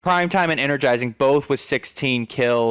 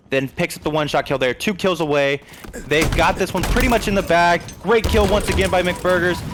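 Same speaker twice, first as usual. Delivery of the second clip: energetic esports call, settling at the end; play-by-play. Real, not acted. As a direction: call the winning plays, then land the result. Calls the game's finish.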